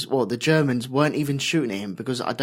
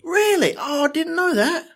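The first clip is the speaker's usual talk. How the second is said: genuinely surprised. Real, not acted. Host surprised to hear about the casting, high and startled. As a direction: caught off guard by a casting fact.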